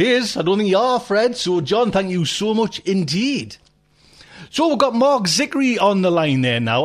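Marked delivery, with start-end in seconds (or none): 4.5-6.8 DJ voice. Real, not acted. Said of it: "I sound like a D J there".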